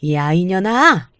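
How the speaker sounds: a mild mock yell, snapped out; retold yell. Mother-in-law yelling at her daughter-in-law in a café, mild mock yell. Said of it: "소리를 버럭 지르면서".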